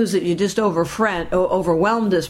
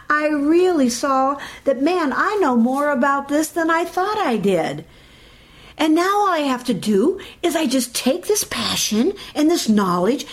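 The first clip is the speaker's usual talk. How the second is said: higher, bright encouraging inner voice; upbeat self-talk; 5 semitones higher than usual. Retold or imitated. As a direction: cheer yourself on. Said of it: "switch it to something like this".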